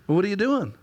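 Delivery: a wife calling, light and lilting. Retold or imitated. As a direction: sing it up like his cheerful wife. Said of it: "the lilt in her voice".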